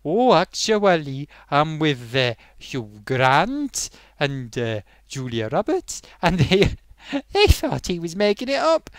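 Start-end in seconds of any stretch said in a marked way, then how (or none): 0.0-6.0 slow Welsh reply. Retold or imitated. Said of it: "he said".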